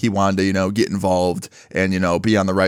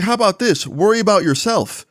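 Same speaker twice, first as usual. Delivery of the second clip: heated comeback; 9 semitones higher than usual. Retold or imitated. Retold heated argument with bully.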